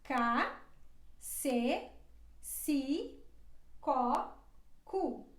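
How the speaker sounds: ca with a hard k, ce and si said with s; syllable drill. Shown as a demonstration. Teacher drills the c syllables for learners. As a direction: spell out each syllable clearly. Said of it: "ela se pronuncia assim".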